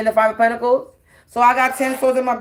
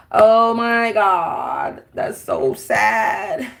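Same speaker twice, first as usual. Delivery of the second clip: mock pity; much slower than usual. Mocking pity for critics.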